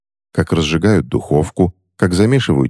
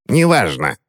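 curt; 4 semitones higher than usual. Acted. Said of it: "снова отрезала старуха".

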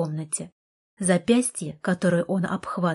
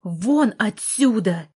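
yelling; 3 semitones higher, 4 dB louder, slower than usual. Acted. Heroine losing her temper at Artur, slow loud yell. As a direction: blow up and roar him out. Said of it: "заорала".

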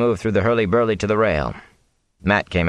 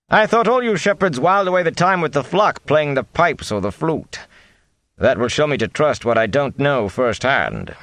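put-on old gleeman's teasing; 7 semitones higher than usual. A narrator's reading. Tom the gleeman teases Mat.

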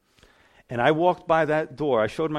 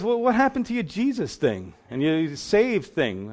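mocking; 4 semitones higher, slower than usual. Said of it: "He goes".

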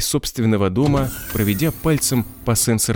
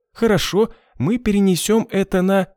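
high-voiced boss; 10 semitones higher than usual. Sova voices boss, high pitch.

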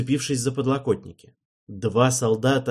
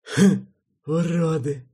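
scornful snort; 7 semitones higher, 5 dB louder, slower than usual. A narrator's reading. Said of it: "хмыкнул Седрик".

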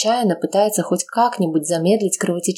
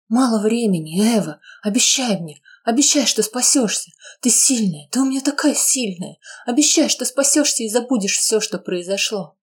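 lightly voiced tender insistence; 5 semitones higher than usual. Dying mother urging daughter to promise, tender. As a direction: press her gently to promise.

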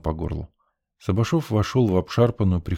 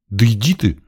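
annoyed woman; 5 semitones higher, 6 dB louder than usual. A narrator's reading. Woman slams door.

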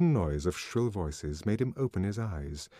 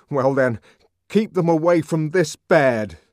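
louder, angry, pushing back; a man furious on his mother's behalf; indignant; 7 semitones higher, 11 dB louder than usual. A narrator's reading. Savage telling the nurse to keep the children away, loud indignation. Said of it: "The savage's voice was trembling with indignation".

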